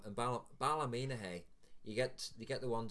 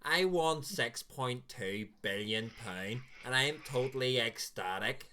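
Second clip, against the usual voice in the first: put-on gloomy Belfast accent. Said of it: "they always sound depressed".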